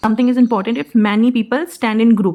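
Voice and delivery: slow, word by word; slow dictation pace. Shown as a demonstration. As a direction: say it slowly so they write. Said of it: "slow English summary".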